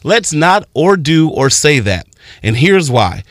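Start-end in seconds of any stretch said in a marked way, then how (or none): 0.0-2.1 slow, kind, guiding tone; calmly steer them right; patient teacher talking a kid through it; gentle correction. Shown as a demonstration. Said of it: "the real benefit is to say".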